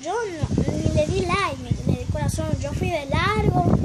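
proud she ignored their photos; emphatic boast. Real, not acted. Girl tells viewers, loudly, that she snubbed their photos.

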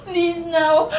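high, tearful begging for forgiveness; fake sobbing plea. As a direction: pretend to cry while begging. Prank fake confession, begging partner.

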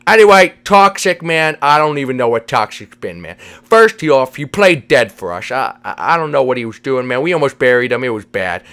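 mushy s sounds, casual drawn-out "hey, man"; slurred cartoon buddy. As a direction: play a goofy pal with slushy consonants. Voices Vinny telling news.

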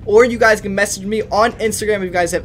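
upbeat hype announcer selling his Discord; ad read. Acted. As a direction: sell the chat room like a radio spot. Channel promo read over music.

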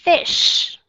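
Fish with a long voiceless final sh; final sh sound. Shown as a demonstration. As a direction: stretch the sh at the end of Fish. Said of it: "Ở phía sau".

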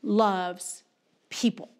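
very slow, word-by-word declaration; emphatic preaching. Real, not acted. Preacher making it really clear to the congregation, emphatic preaching. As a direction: preach it with weighty pauses between words.

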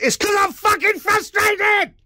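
high, loud, slow furious yell; frustrated shout. Real, not acted. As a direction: let the frustration burst out. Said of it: "I sound frustrated".

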